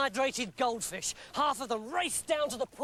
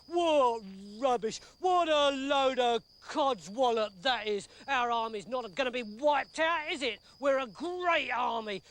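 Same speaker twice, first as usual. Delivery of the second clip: blustering dismissive soldier; scoffing soldier. Acted. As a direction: laugh off the warning.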